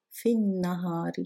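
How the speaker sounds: في النهار joined as fin-nahar; silent alif and lam. Shown as a demonstration. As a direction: skip the al, hold the n of النهار. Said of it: "this and this are not pronounced". (في النهار linked with a double n)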